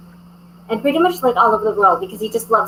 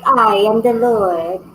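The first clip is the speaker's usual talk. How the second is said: lightly voiced haughty pet; snooty bored cat. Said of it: "this cat's pretty well rules the house".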